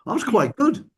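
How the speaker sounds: self-satisfied boast. Retold or imitated. The deluded therapist praising his own bad attempt, smug. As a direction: pat yourself on the back for a bad try. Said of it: "And he'll go".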